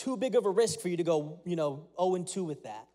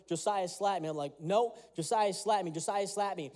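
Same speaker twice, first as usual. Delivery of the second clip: stern dad. Retold or imitated. Father pressing his son to slap him, mildly stern. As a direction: insist calmly but firmly like a father. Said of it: "he's getting more and more stern".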